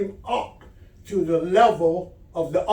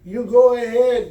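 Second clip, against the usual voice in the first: calling back; 5 semitones higher, 5 dB louder than usual. Acted. Man waves off the pilot.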